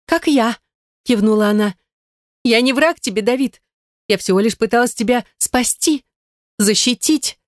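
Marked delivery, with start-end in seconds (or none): 0.0-0.6 lightly voiced Gaine. A narrator's reading. Gaine, high. 2.4-7.4 lightly voiced Gaine. A narrator's reading. Gaine pleading.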